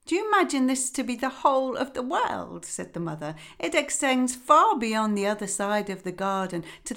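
lightly voiced fussy mother duck; a hint of a weary, busy mother; mildly fretful hen voice.

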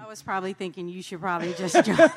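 quick joke with a laugh in it; laughing tease. Real, not acted. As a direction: tease him through a laugh, fast. Wife teases husband, laughing.

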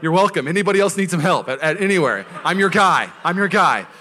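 loud, triumphant boast; retold bragging announcement. Young staffer telling everybody his prayer worked, loud and boastful. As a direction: announce it loudly to all comers. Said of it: "I was telling everybody".

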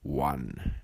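slow, grand showman announcement; ringmaster. Acted. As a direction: call it out like a circus ringmaster. Podcast intro as circus announcement.

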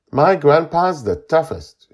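put-on high, loud child's voice; boasting boy. A narrator's reading. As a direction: brag stoutly like a little kid. Boy boasts of his grandpa.

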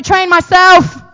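slow call and response; slow call phrase. Shown as a demonstration. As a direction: lead them slowly.

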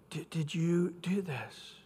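soft, slow whispered question; gentle whisper. Shown as a demonstration. Pastor showing God asking Adam, a soft whisper. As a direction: ask it gently, no blame. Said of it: "I don't think he had a condemning in his voice".

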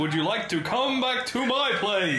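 breathy vintage purr. Retold or imitated. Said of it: "Imagine him".

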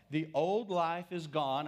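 slow, weighty reading; slow scripture reading. Shown as a demonstration. Preacher reading scripture to the congregation, slow and weighty. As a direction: read it slowly, each word weighed. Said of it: "I'm reading the scripture".

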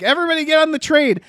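quick, plain American accent, mock Nazi guard. Mocking a Nazi guard to the cohost in an American accent. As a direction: rattle it off like an American actor playing a Nazi. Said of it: "in a perfect American accent".

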